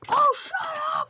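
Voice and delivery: loud high shout-down; annoyed yell; angry shout. Real, not acted. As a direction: snap it at them. Yelling at friend.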